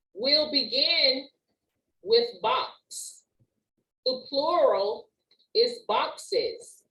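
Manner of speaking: slow, careful reading, word by word.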